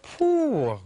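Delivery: sharp high whistle-like phew; high exclamation. Real, not acted. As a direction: react with a high, loud phew. Reacts to beefy breath.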